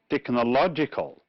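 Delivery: technological with LOG stressed; stress before the ending. Shown as a demonstration. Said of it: "the one before the last".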